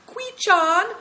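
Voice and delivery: high, loud long-distance call. Acted. Seven Stars calling from the yurt, high and loud. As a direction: call a name across the distance. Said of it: "calling alternately".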